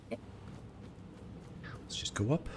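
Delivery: very slow breathy whisper. Real, not acted. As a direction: drag it out in a whisper. Slow drawn-out aside.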